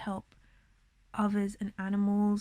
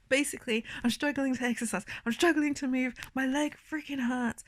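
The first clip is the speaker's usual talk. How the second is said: laughing; 4 semitones higher, 5 dB louder than usual. Real, not acted. Laughing confession of struggle.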